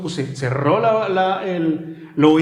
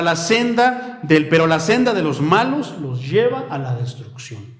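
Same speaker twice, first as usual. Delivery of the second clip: slow, measured reading aloud; scripture reading. Real, not acted. Preacher reading the Psalm to his congregation, deliberate scripture reading. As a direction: read it out deliberately, stretching phrase endings.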